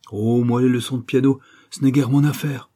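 loud, airy show of not caring; feigned boredom, lightly voiced; affected indifference. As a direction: toss it off as if it bores him. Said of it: "d'un air d'indifférence affectée".

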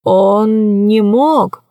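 put-on very slow, old man voice; stunned disbelief. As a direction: refuse to believe it.

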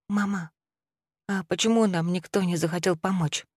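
put-on a small boy asking quietly; timid child. Boy asks mother quietly. (робкий детский вопрос)

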